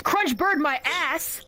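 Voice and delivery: slow scornful drawl; scornful punchline. Retold or imitated. Husband scoffing at his wife's bird, slow drawl. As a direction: drag out the punchline.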